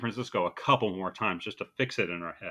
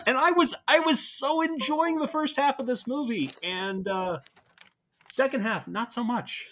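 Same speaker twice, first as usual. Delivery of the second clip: higher, amused voice; laughing; 12 semitones higher than usual. Real, not acted. Laughing disappointment.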